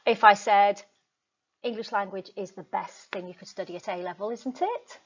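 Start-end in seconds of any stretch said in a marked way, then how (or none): 1.6-5.0 tag question seeking approval. Shown as a demonstration. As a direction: add a tentative isn't it? at the end. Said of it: "asking for a bit of approval".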